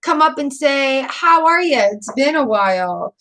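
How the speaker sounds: put-on old friend's hello. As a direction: lightly play a friend saying hi out of the blue. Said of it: "knocking on your Facebook door going".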